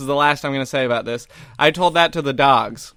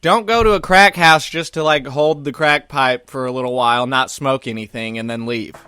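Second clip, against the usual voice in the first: mock PSA. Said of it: "attention, ladies".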